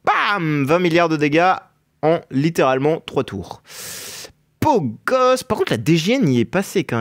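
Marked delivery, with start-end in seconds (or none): 0.0-5.4 esports caster. Real, not acted. Hyping a huge damage hit.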